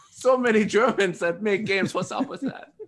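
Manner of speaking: high mock-German voice; German accent. Host as designer joking with players, German accent. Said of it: "I'm just talking in a German accent".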